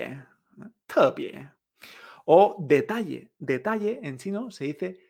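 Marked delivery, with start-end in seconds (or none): 0.9-1.5 "Tebie" dropping first, lifting on the second syllable; falling then rising tones. Shown as a demonstration. Teacher repeating special, "Tebie" down then up. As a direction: fall on "Te", climb on "bie". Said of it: "que tienen esta entonación".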